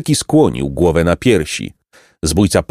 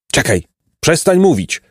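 trembling voice; 7 semitones higher than usual. A narrator's reading. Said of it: "mówił drgającym głosem nieborak".

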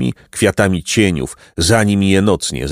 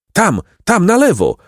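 high-pitched, urgent narrated cry; failing-breath call; 11 semitones higher than usual. A narrator's reading. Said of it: "wołał zamierającym oddechem Placek".

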